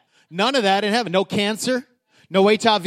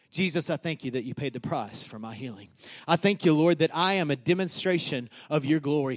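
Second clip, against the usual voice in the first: quiet, lower, sincere thanks; calm thankful prayer; 3 semitones lower, 5 dB quieter than usual. Shown as a demonstration. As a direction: pray softly with confidence. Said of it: "Pray like this".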